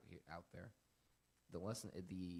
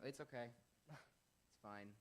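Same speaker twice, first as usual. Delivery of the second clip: nice; 4 semitones higher, much slower than usual. Acted. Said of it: "Me being nice is".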